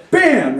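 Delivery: imitated crash, punched out high; sudden bang. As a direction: hit it like something striking a window. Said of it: "all of a sudden you hear".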